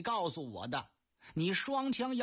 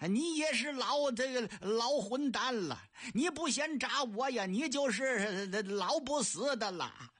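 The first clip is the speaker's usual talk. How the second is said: 大声叫骂；拔高嗓门、半开玩笑地激老头；故意挑衅、嘲弄对手；罗成高声激将，戏谑叫骂; 4 semitones higher than usual. Acted. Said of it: "高喊一声".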